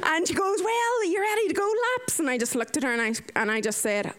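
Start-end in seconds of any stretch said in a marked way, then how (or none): 0.6-2.2 high, bouncy housemate voice; pitched-up, eager invitation; pumped. Retold or imitated. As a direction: imitate someone buzzing after a great day. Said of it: "She was all pumped".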